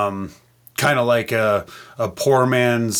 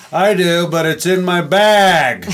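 mock pointed reply; 5 semitones higher, 5 dB louder, slower than usual. Bill's pointed reply in joke.

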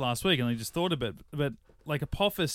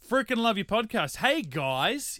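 put-on Australian accent; 8 semitones higher, slower than usual. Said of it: "in my best Australian accent".

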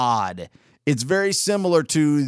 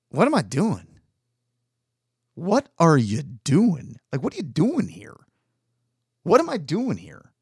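Tony Kornheiser; 3 semitones higher than usual. Retold or imitated. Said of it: "kinda get it from Tony Kornheiser".

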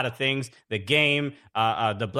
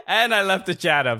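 laughing admission; 4 semitones higher, 4 dB louder than usual. Real, not acted. Echoes the tease laughing.

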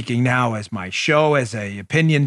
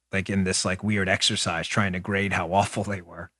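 ordinary talk

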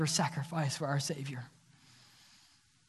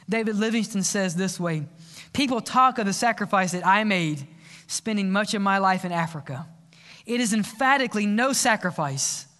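fervent preaching. Acted. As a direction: preach it to the church at full force. Preaching the altar call.

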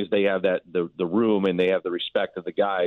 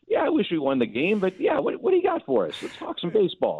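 high-pitched, paraphrased manager; imitated easygoing reply, pitched well up; breezy brush-off; 12 semitones higher than usual. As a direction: shrug off the loss in a raised voice.

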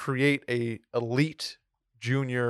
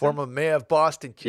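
mock Boston accent; 3 semitones higher, 4 dB louder than usual. Joking with his co-host in a mock Boston accent. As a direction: play the Boston tough guy with a Boston accent. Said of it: "That was bad".

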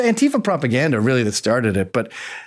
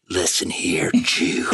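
mock bigot hiss; 10 semitones lower, slower than usual. Husband mocking what his wife supposedly would say, a low whispered sneer. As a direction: lean in with a low menacing hiss. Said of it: "Like my wife was gonna go".

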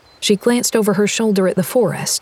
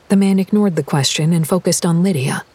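ordinary delivery, nothing marked

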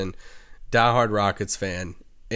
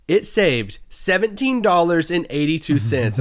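raised pitch, mock-triumphant announcement; imitating triumphant wife; 4 semitones higher than usual. Husband imitates wife reporting coupon savings at Target, mock-triumphant. Retelling wife's triumph at checkout.

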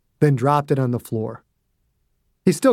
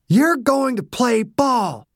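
slow, higher, deliberate menace; slow threat; 9 semitones higher, slower than usual. Acted. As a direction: spell out each word as a threat. Dew threatening during beating.

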